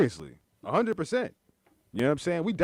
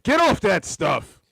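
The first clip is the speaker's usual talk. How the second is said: slow, higher sitcom dad scolding; goofy clueless sitcom voice; 5 semitones higher, 4 dB louder, slower than usual. Retold or imitated. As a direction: stretch it like a TV dad. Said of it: "sounded like a sitcom dad".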